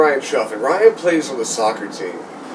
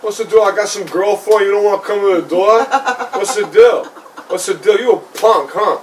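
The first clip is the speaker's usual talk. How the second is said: lightly put-on Brooklyn accent, higher and half-laughing; 5 semitones higher than usual. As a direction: needle the ghost in a mock Brooklyn tough-guy accent. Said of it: "I just put on, like, this, like, Brooklyn accent".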